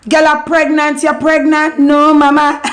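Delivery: high-pitched mock reaction to news; playful high-pitched outcry; acted exclamation. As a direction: exclaim it high, as if finding someone out. Acted reaction to a girl's pregnancy.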